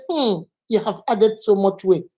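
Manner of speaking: judging hum, then an understated verdict; disapproving remark. Shown as a demonstration. Teacher showing someone judging weight gain, disapproving. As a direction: open on a hum and pass judgment. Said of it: "You see the difference?".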